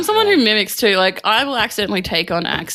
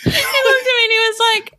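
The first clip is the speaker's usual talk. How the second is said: laughing; 11 semitones higher than usual. Real, not acted. Laughing while telling.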